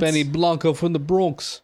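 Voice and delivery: lightly put-on Bronx accent. Co-host quoting a character after New York talk, Bronx accent. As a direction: quote it with a Bronx twang.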